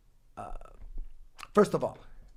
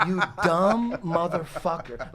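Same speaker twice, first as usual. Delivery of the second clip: mock insult; slower than usual. Retells reaction to buddy's question.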